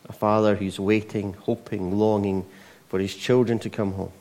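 hushed closing prayer. Real, not acted. Leads a prayer.

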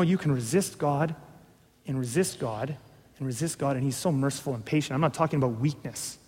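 solemn preacher quietly warning of rebellion; sober hushed preaching. Acted. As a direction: drop the voice to sober them. Sober warning, much softer.

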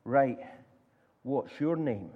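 mildly stern questioning; lightly acted guard, measured and in charge; a touch of authority, pausing after the first word. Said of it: "looks at them very sternly".

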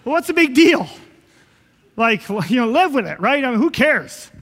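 loud, mock who-cares shrug; hammed-up scoffing at a fuss; dismissive indifference. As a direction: wave it off loudly. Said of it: "we kinda read the story, and it's like".

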